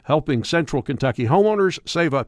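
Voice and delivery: polished, continuous commercial delivery; radio spot with emphatic, lifted key phrases; radio ad read. Acted. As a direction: pitch the offer in a lively, sales-driven read. Reads a radio ad.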